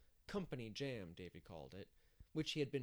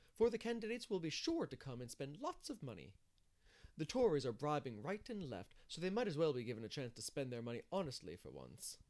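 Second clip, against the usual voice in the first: lightly voiced busybody, higher and louder; busy organiser; 3 semitones higher, 4 dB louder than usual. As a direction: press the point in a lifted voice. Narrator voices Mrs Lynde.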